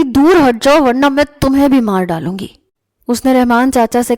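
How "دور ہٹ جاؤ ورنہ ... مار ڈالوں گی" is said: higher and louder, wild threatening yell; furious threat. A narrator's reading. Maria beating her brother's chest, furious threat. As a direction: scream at him to get away.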